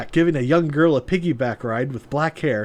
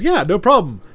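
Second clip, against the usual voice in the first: woman voice; 6 semitones higher, 5 dB louder than usual. Retold or imitated. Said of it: "she goes".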